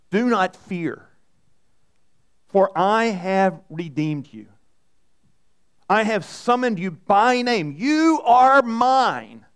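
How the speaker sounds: slow, measured reading of scripture; a preacher reading Isaiah to his church. Acted. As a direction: read the promise slowly and tenderly. Reads the Isaiah passage.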